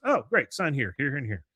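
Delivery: brisk mock businesslike delivery; dropping the act. Salesman once the sale is made, suddenly matter-of-fact. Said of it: "completely turns that character off".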